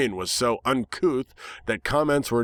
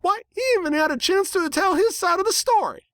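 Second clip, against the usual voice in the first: indignant little filly. A narrator's reading. Apple Bloom defends the stranger to the crowd, high and fierce. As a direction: scold them with righteous indignation. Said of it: "she cried".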